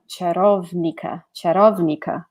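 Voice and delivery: "czarownica" tried carefully, ch-a-ROV-nee-tsa; unsure Polish attempt. Shown as a demonstration. Teacher unsure, trying the Polish "czarownica". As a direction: sound it out hesitantly. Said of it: "in a very wrong way".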